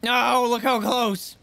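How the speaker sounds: high cooing pet voice. Real, not acted. Coos at in-game pet.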